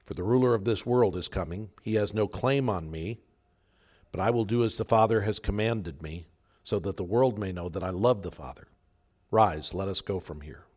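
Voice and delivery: solemn Bible reading; scripture reading. Acted.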